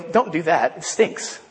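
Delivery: whispered, wrinkled-nose protest; mock disgusted whisper. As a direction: hiss it out like a squeamish onlooker. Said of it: "and they go".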